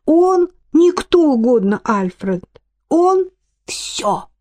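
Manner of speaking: a voice breaking with tears, rising high; almost crying as she says it; tearful. A narrator's reading. Irma tearfully tells Alfred her master is everything.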